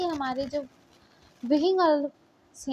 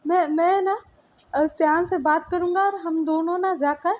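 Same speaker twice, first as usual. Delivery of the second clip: higher and louder, hurried reassurance; calm her down, begging; desperate pleading; 4 semitones higher, 3 dB louder than usual. Acted. Boyfriend desperately calming Li. (ऊँची और तेज़ आवाज़ में घबराई हुई मिन्नत)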